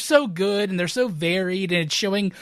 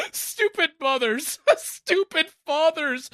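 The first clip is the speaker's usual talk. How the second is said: high sneering villain taunt; mocking villain; 8 semitones higher than usual. Villain Summers taunting the parents, sneering. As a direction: sneer it through laughter. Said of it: "You nailed that laugh".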